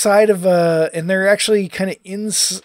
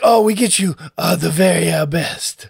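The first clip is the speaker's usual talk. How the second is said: a hint of a cartoon Italian waiter; lightly voiced Italian waiter fawning; light Italian accent; 3 dB louder than usual. Quoting the waiter to cohost, mild Italian accent. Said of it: "Italian accent".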